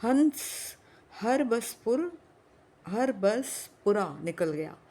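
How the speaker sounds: high excited call, slowing at the end; a clerk bursting out at a passing town; excited shout. Acted. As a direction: blurt it out in excitement. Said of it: "ऊंची आवाज में बोला".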